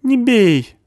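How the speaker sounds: high, loud frightened stammering; cornered man stammering; panicky stammer. A narrator's reading. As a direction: stumble over the words in fear. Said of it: "сжался он".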